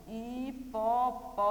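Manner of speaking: slow, each syllable set apart; syllable-by-syllable dictation. Shown as a demonstration. Teacher repeating an animal's name for spelling, slow and syllabified. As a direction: sound the word out slowly.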